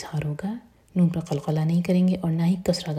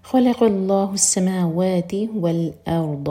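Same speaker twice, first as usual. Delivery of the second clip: slow, louder chanted phrase; slow tajweed recitation; 3 dB louder, slower than usual. Shown as a demonstration. Teacher reciting the verse for students, slow and full. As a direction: lay each sound out clearly for the learner. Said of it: "را ساکن heavy".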